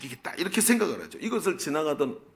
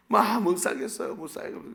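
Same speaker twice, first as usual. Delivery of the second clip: mock complaining wife, starting higher and dropping away; 6 semitones higher than usual. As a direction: act out a wife's grumbled outburst. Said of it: "막 불평을 쏟아놓기 시작합니다". (못 살겠다고 푸념하는 아내 흉내)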